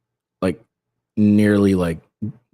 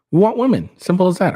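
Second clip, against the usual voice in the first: much higher, louder, hitting women; emphatic declaration; 10 semitones higher, 3 dB louder, faster than usual. Real, not acted. To viewers, closing his argument with a loud, emphatic declaration. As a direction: hammer it home with a raised voice.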